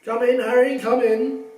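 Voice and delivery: loud, booming, pleased with himself; hearty Lockhart. Acted. Vain teacher welcoming Harry into detention, booming. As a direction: greet the boy like a vain celebrity.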